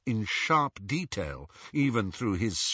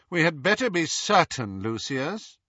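higher, cool wifely caution; cold, clearly articulated warning; 6 semitones higher than usual. A narrator's reading. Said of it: "in her cold, clear voice".

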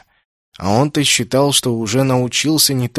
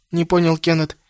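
ordinary delivery

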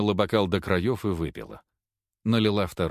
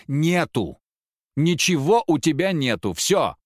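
loud, raised "Нету!" flung at him; angry shouting; 5 semitones higher, 5 dB louder than usual. A narrator's reading. Wife yells at her husband that there is no money left. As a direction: yell it in his face, louder and louder.

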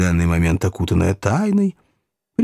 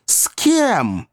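startled question; 10 semitones higher than usual. A narrator's reading. Ladies question Pickwick.

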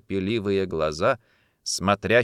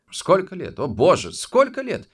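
irritated; 9 semitones higher, 4 dB louder than usual. Acted. Narrator irritated outburst.

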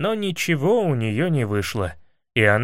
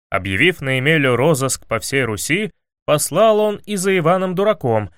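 ordinary delivery

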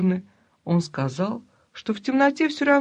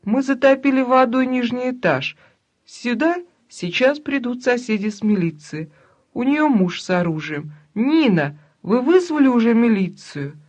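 loud, higher, firm announcement; said loudly; 4 semitones higher, 4 dB louder than usual. Acted. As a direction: bluff the robbers loudly. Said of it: "бабуля громко сказала". (громко, для грабителей)

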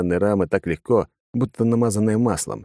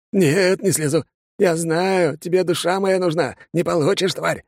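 put-on crazed drunk; 11 semitones higher than usual. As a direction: point and accuse the demon. Father refusing on the sill.

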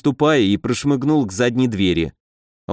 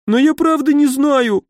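much higher tearful whimper; 12 semitones higher, 3 dB louder than usual. A narrator's reading. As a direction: plead through tears. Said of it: "захныкал он". (захныкал, высоко и плаксиво)

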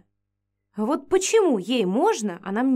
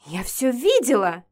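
squeal; 2 semitones higher, 4 dB louder than usual. Acted. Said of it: "взвизгнула Эдигва".

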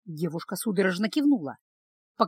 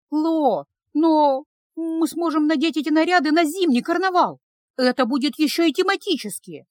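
put-on higher, louder young woman coaxing; higher pleading girlish voice; 6 semitones higher, 3 dB louder than usual. A narrator's reading. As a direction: try to win him over. Girl pleading in argument.

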